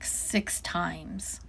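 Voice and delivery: ordinary delivery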